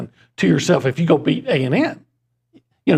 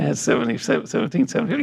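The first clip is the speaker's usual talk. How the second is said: creepy guy voice; 5 semitones higher, 4 dB quieter than usual. Pretend. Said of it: "That creepy guy".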